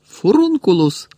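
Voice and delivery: high, drawn-out cry; shouted spell. A narrator's reading. Harry fires a curse at Malfoy, shouting. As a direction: hurl the incantation at an enemy. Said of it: "крикнув Гаррі".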